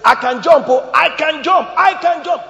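high, loud mock bragging; boastful jumper. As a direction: ham up a show-off on a rooftop. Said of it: "Somebody stands on top ... and say".

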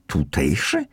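mock-questioning with a sceptical rise; ironic. Young man doubting the narrator's claim, ironic. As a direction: throw the word back with mild irony. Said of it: "ironizował młody człowiek".

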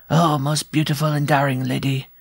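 a thin shrill voice like a pin on glass; shrill dwarf voice. Acted. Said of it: "in a voice as shrill as a pin scratching on a window pane".

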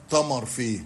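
"تمر" opening on t, not th; Egyptian colloquial form. Shown as a demonstration. Linguist quoting everyday Egyptian usage, "تمر" said with t. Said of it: "موجود في العامية المصرية".

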